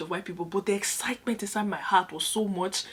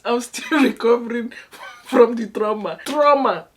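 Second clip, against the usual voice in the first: louder repeat, higher on TRAUMA; mock-dramatic emphasis; 4 semitones higher, 9 dB louder, slower than usual. Real, not acted. Telling viewers she is still recovering, mock-dramatic emphasis. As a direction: play up the trauma with a laugh.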